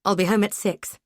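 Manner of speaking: a restrained bark. Acted. Charlie at the office barks into the phone, held back. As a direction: snap it but keep it down. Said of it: "I bark into the phone as loudly as I dare".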